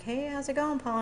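high-pitched retold phone hello; cheery greeting. Answering a friend's call unawares, cheery. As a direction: imitate an unsuspecting, upbeat hello.

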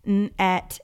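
"n, et" pulled apart into separate sounds; segmenting sounds. Shown as a demonstration. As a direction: split net into its sounds. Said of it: "Okay, net".

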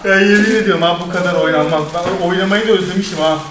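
panting and laughing, loud; winded after dancing, gasping; out of breath. Real, not acted. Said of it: "nefes nefese kaldım".

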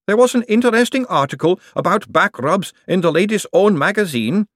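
high, hopeful golem voice. A narrator's reading. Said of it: "the hopeful tone in her voice".

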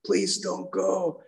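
high, slow imitation of a crying man; mock tearful plea. Man begging dying Maude not to go, imitated crying. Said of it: "he's crying and says".

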